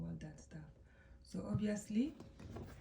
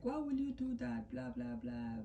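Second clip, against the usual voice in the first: mock parental scolding, pitched higher; scolding dad; 5 semitones higher than usual. Dad reacting to his son's mistake, scolding in a raised pitch. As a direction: act out a dad's high-pitched telling-off. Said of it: "the dad is like".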